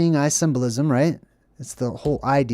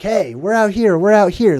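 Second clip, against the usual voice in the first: taunting call; 4 semitones higher, 4 dB louder than usual. Retold or imitated. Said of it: "They're like".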